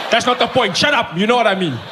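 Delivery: a fan brushing off a silly question, half-laughing; mock annoyed fan. Fan snaps back in quarrel.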